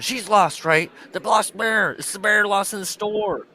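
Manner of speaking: high, loud mock hysteria; hammed-up frantic teacher; manic interrogation.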